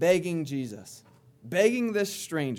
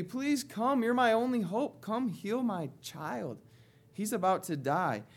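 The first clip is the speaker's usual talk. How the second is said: pleading higher, building urgency; more intense plea; 3 semitones higher than usual. Retold or imitated. Father begs Jesus again after rebuke, urgent higher plea. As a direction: beg harder, pushing the pitch up. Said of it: "he picks up the intensity".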